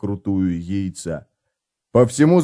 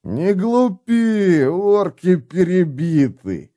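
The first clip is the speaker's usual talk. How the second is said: gruff dwarf voice; 6 semitones higher, much slower than usual. Acted. Dwarf snaps at drunk comrade.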